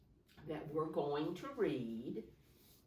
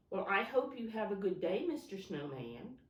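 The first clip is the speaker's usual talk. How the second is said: pretend farewell; 4 semitones higher, 3 dB louder than usual. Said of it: "I kinda have to pretend".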